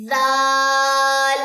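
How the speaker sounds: ذال stretched long and loud, ending on a clear lam; drawn-out ذال. Shown as a demonstration. Teacher repeating the letter for students, slowly drawn out. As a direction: hold ذال out slowly and let the final lam ring. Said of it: "ان سب کی sound ایک دفعہ دوبارہ سن لیجیے".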